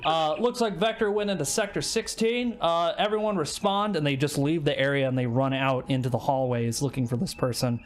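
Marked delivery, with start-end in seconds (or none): 0.0-3.9 higher, brisk radio call; radio dispatch voice. Acted. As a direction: report in over the comms. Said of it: "they're like".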